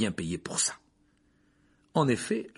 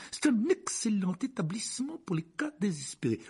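whispered uncle; 12 semitones higher than usual. Acted. Vernon answering quickly.

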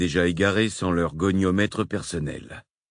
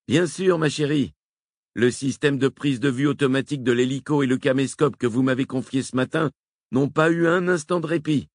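Wakefield à la radio; 8 semitones higher than usual. A narrator's reading.

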